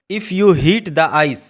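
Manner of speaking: very slow, word by word English; careful classroom reading; slow dictation. Shown as a demonstration. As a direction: spell it out slowly for learners. Teacher dictating English example.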